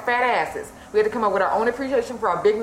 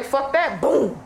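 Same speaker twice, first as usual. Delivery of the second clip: higher-pitched mock dismissal, punchy boom; dismissive attack; 4 semitones higher, much slower than usual. Powers that be crushing a black utopia, mock dismissive. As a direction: toss it off, then imitate the blast.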